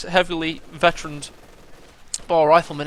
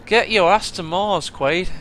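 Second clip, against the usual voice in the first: slow, loud Schwarzenegger-style line; hammed-up action hero growl of a quote; movie quote; 3 semitones higher, 7 dB louder, slower than usual. Caster breaks into a movie line mid-game, slow and loud.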